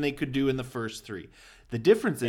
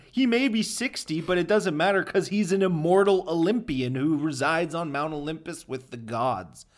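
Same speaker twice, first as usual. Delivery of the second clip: usual speaking voice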